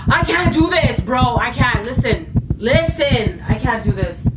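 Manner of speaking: blurting out that she can't go on; real distress breaking through the story; overwhelmed. Real, not acted. Overwhelmed retelling ghost sighting.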